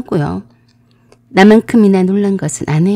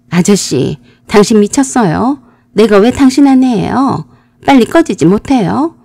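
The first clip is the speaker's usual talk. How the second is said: yelling back; 2 semitones higher than usual. Retold or imitated. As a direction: turn it around on him. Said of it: "되려 큰 소리를 쳤습니다".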